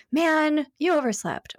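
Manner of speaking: mildly annoyed morning nag; grumbling parent. Retold or imitated. Parent to a child who overslept, grumbling. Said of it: "you're like".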